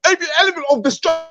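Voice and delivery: crying. Real, not acted. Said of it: "how you gonna cry".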